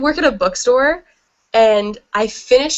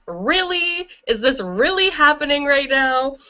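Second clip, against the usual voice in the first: higher, incredulous "really?"; retold disbelief; 5 semitones higher than usual. Crying over the book at lunch, a high disbelieving whine. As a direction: act stunned that this is actually happening.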